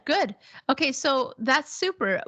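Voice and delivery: ordinary talk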